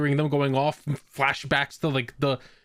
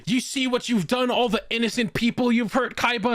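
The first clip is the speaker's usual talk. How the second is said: mock shouting; 8 semitones higher than usual. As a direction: imitate a shouted accusation, voice pushed high. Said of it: "Also him just shouting".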